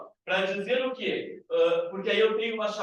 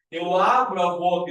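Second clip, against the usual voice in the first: "abro" pushed louder, mouth wide open; emphatic repeat; 6 dB louder than usual. Shown as a demonstration. Teacher showing students the open mouth shape. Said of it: "Ou seja, eu abro a boca".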